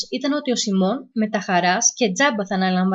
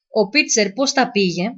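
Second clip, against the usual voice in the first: slow, careful. Acted. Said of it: "Η αργή, προσεκτική φωνή".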